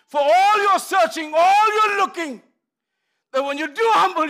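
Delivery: high, loud preacher's cry; full-force preaching. Real, not acted.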